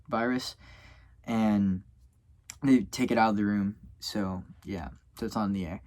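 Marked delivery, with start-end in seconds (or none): 4.0-5.8 words stretched by a yawn; talking through a yawn. Real, not acted. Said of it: "Heck, I'm yawning".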